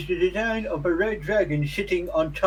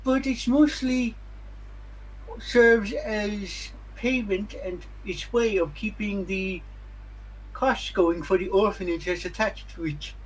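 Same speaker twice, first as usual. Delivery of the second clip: helpful townsperson. Acted. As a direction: play a helpful local with a mouthful of teeth, pitched up. Game master voices a townsperson.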